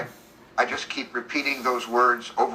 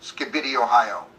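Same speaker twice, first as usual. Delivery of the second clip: groggy mumble. Acted. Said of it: "Groggily mumbles".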